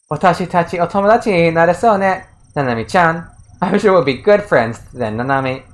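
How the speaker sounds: lightly voiced sugary rival girl; sweet fake friendliness. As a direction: coo it, falsely sweet.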